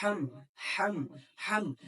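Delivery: हम said over and over, each set apart; repeated हम practice; syllable drill. Shown as a demonstration. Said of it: "इसकी बहुत ज्यादा practice कर लें".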